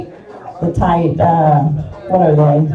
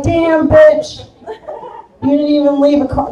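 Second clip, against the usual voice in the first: mock outrage; 8 semitones higher than usual. Comic scolding the dog for eating empanadas, mock outrage. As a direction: blast it like you caught a thief.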